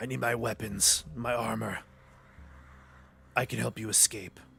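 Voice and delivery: speaking in orc voice. Game master voicing an orc answering a player, orc voice. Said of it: "The orc grunts and he uh, he says".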